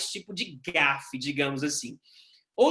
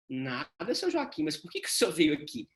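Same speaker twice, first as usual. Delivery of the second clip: mock exasperation; 4 semitones lower than usual. Nurse's exasperated retort.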